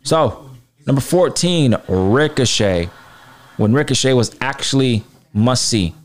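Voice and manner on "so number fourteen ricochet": top ten countdown. Acted. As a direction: reveal the name with a drop. Announcing countdown entry.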